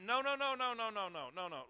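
firm refusal. Real, not acted. Rejecting the devil's lies.

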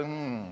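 low flat unimpressed hum; blank cow-like hum. Retold or imitated. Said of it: "look at me and go".

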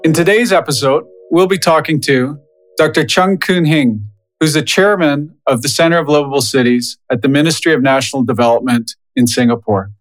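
scripted host introduction, evenly phrased; measured presenter read with pauses between phrases; podcast intro read. Acted.

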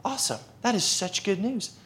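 high, soft, amazed thanks; thrilled gratitude. Acted. Customer thanking the teller for good news, thrilled. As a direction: pitch up, marvel at the good news.

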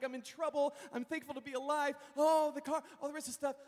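high-pitched retold panic; mock freak-out. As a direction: fret in a rush of worry. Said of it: "I'm, like, freaking out".

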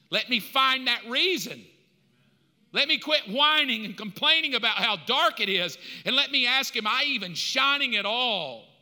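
re-enacted earnest cry to God; fervent prayer. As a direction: pray it out with force and resolve. Re-enacts his new fervent prayer.

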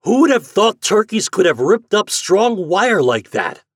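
high, loud, outraged exclamation; enraged cry. A narrator's reading. Market man at his shattered door, enraged. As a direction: cry out in indignant disbelief. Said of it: "cried the enraged market man".

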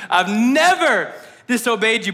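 mock protest leaning hard on "never"; hyperbolic child. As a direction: overstate it with a big push on "never". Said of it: "classic hyperbolic child".

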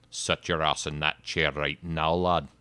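loud, slow, hammed-up Irish accent. Shown as a demonstration. Showing the co-host another accent, loud mock Irish accent. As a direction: order them about in a put-on Irish accent. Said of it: "The Irish accent?".

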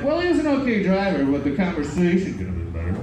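snooty passenger review, first line high; mock-prim customer verdict; quoting a passenger. Passenger quoted sniffily rating his driver. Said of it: "he was like".

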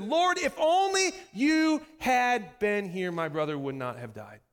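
drawn-out, high, loud cry to the Lord, then sinking; pleading lament. Acted. Grieving sister to Jesus after her brother's death, pleading lament. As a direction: stretch each word in an accusing plea, falling away.

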